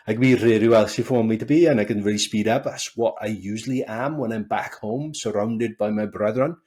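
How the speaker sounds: strong Welsh accent. Shown as a demonstration. Speaker showing the guest how they talk back home, strong Welsh accent. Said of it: "That's my accent. That's how strong it can be".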